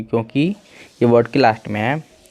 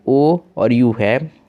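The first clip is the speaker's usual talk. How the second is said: slow spelling; much slower than usual. Shown as a demonstration. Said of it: "teacher spells letters slowly".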